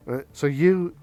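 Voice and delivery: normal talking voice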